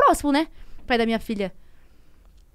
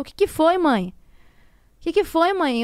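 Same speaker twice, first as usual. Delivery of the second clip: put-on higher, louder little girl's worried question; daughter asking; 6 semitones higher, 5 dB louder, slower than usual. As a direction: voice the child asking mom what's wrong. Daughter voiced in the story. (voz de filha preocupada, mais aguda)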